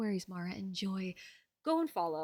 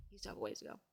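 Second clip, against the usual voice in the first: mock deep voice; 14 semitones lower, 17 dB quieter, much faster than usual. Repeats the line in a put-on voice.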